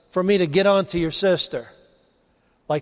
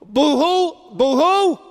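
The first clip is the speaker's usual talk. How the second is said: hammed-up boo-hoo sobs, higher; a mocking, pitched-up fake cry; 6 semitones higher, much slower than usual. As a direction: fake whimpering to mock a complainer. Preacher mocks Martha crying.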